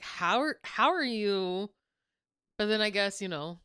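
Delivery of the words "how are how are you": mock British. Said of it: "And I was like".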